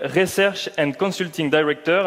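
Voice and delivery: English title in a mock English accent. Shown as a demonstration. Host introducing the IDC guest, lightly English accent. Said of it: "avec mon bel accent anglais".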